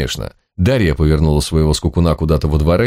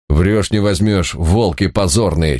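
strange possessed voice; slower than usual. Acted. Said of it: "чужим голосом орала".

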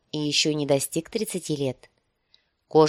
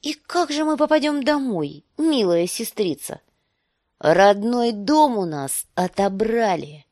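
higher, louder, slowing with rage; seething fury; 5 semitones higher, 4 dB louder than usual. Acted. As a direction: spit the words out in fury. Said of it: "слышать ярость в его тоне".

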